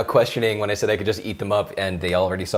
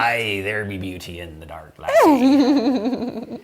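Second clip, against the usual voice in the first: put-on pirate accent; much slower than usual. Pirate accent reading a chat viewer's line. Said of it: "talk like that".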